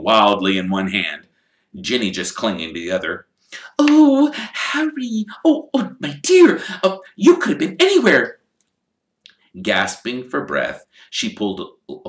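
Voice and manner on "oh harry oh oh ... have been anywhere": high, loud breathless fussing; frantic mother. Acted. Mrs Weasley finding Harry at last, high and loud with relief. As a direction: rush in overwhelmed with relief.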